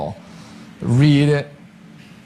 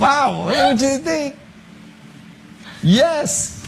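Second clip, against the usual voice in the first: lightly voiced teacher; slower than usual. Teacher voiced in classroom story.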